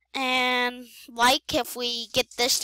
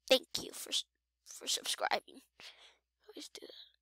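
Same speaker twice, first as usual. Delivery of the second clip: whispering; 9 dB quieter than usual. Real, not acted. Trails into whisper while hiding.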